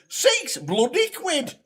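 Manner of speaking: slow, high, laughing mock outrage; outraged mum. Mum repeating the ice cream price, mock outraged and laughing. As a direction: drag out the price in disbelief.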